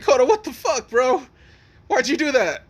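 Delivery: high, loud, indignant outburst; pissed off. Retold or imitated. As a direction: demand it in acted outrage. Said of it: "like, pissed off".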